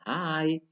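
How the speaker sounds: "hi" high, falling at the end; drilled "hi", lifted then let down; falling intonation. Shown as a demonstration. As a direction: demonstrate "hi" with a dropping tail. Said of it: "nadanya, intonasinya sudah menurun".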